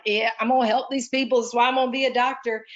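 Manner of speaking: put-on cocky young medic bragging to himself; puffed-up pride. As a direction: strut it like a proud peacock. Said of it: "I puffed up like a peacock".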